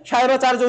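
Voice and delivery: সায়নাচার্য said "Sayonacharjo"; Bengali pronunciation. Shown as a demonstration. Teacher reading in Bengali for pupils, Bengali pronunciation. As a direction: give সায়নাচার্য a "j" before the final vowel. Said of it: "আমরা বাংলায় পড়ছি".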